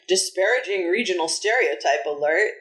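lightly put-on voice quoting the tweet; a hint of mockery quoting a stranger's tweet; mock reading of tweet. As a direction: read the tweet in a faintly mocking tone. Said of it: "responded by saying".

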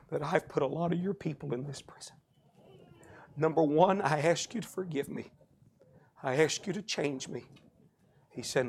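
halting, hushed prayer; retold prayer. Colonel in prison praying to an unknown God, hushed. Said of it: "when he began to pray".

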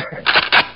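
making fart noises. Retold or imitated. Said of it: "esse foi um peidinho humilde".

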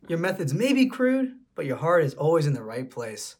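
lady voice. Acted. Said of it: "I don't know how to do a lady voice".

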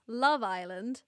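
drawn-out British Love Island; British accent. Shown as a demonstration. Podcaster comparing accents for her co-host, British accent. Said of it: "so for British people".

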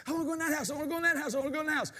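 lightly voiced little demons begging to go in; excited little devils. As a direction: beg like an impatient little imp. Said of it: "they got all excited and said".

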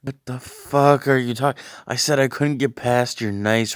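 loud high indignant outburst. Real, not acted. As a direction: fire back in disbelief.

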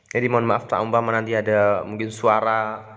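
talking while smoking; cigarette in mouth. Real, not acted. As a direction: speak with a cigarette between the lips. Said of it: "saya sambil merokok".

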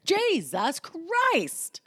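very slow, high, whispered exclamation; exasperated whisper. Retold or imitated. Venting about a text conversation, exasperated slow whisper. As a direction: drag it out in a whispered mock outrage.

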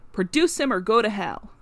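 loud, angry ultimatum; furious challenge. Acted. Groom to the lawyer, an angry loud ultimatum. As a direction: throw the dare at him.

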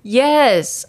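fake high energy. Exhausted co-host claiming high energy, mock excited. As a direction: fake enthusiasm on the word. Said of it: "with high energy".

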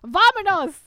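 put-on loud, high Italian-accented rallying cry. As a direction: shout it with a mock Italian accent. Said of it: "with an Italian accent".

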